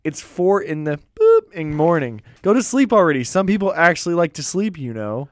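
acted roommate annoyance; irritated complaint.

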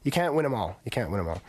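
hoarse, creaky throat after a festival. Real, not acted. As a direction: talk through a creaky, worn-out voice. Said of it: "My cr-, creaky voice today".

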